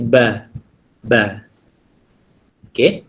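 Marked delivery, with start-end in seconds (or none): 0.1-1.4 teacher demonstrating "ba"; ba demo. Shown as a demonstration. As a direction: repeat "ba" lightly.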